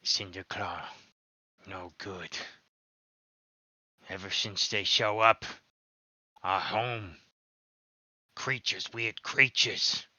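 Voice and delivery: broken-English goblin, ending on a high squeak; a goblin whose voice jumps up at the end; pleading goblin elder, voice cracking high; goblin voice hitting a high note. Acted. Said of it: "hits, like, a bit of a high note".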